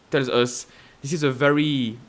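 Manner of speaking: normal talking voice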